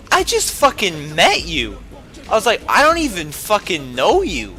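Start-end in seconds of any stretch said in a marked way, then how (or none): 0.1-1.8 slow, blunt retold retort; rude retort. Telling off the girl he just met, rudely. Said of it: "I didn't say it, you know, rude like that". 2.7-4.5 blunt retold retort, pitch raised; rude retort. Retelling his answer to the crying girl, rudely. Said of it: "I didn't say it, you know, rude like that".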